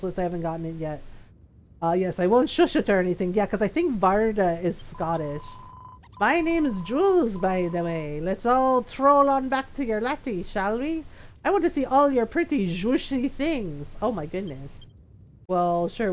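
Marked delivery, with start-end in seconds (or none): 6.2-14.0 high, drawn-out character voice; Jules. Acted. Reading the goodie bag's lines to viewers, theatrical character voice. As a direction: play the line up, slowly and with big pitch swings.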